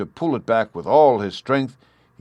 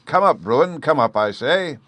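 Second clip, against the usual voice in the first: much higher, louder roar; 7 semitones higher, 5 dB louder than usual. A narrator's reading. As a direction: bellow it for the boy to hear. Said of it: "He roared out the last words".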